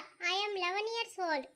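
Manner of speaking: slow, drawn-out boast; boasting boy. Acted. The boy counters the girl's boast, slow and deliberate. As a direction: spell out the age to win the argument. Boy answers with his age.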